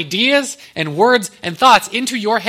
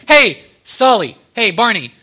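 drawn-out friendly hail, slightly raised; mock call to get someone's attention; calling out names; 4 dB louder than usual. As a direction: imitate hailing two pals, slowly.

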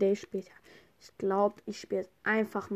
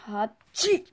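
sneeze. Pretend.

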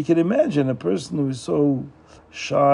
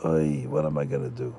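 bitter crying lament; 12 semitones lower, 5 dB quieter than usual. A narrator's reading. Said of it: "cried hysterically, bitterly".

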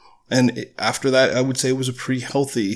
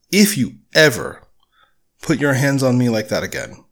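firm, measured warning, lightly stern; a hint of a stern boyfriend setting a boundary. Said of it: "I said in a very stern voice".

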